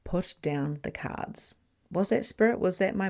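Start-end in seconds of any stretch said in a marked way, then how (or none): 0.1-1.6 soft, slow voice in her head; a quiet, slow nudge from within; inner voice. Retold or imitated. Voice in her head telling her, softly and slowly. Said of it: "this little voice in my head that said".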